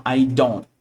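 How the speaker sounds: "don't" cut short on a held, unspoken T; unreleased T. Shown as a demonstration. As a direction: set the tongue for the T in "don't" but don't release it. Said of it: "põe o T e não fala ele". ("don't" com o T preso, sem soltar)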